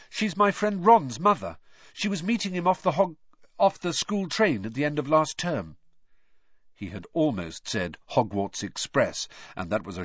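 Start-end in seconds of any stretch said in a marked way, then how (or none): 0.1-5.8 put-on high boy, hurrying then catching himself; earnest boy. A narrator's reading. Harry telling his uncle about Ron's mother, earnestly. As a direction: explain eagerly in a higher young voice. Narrator voices Harry explaining.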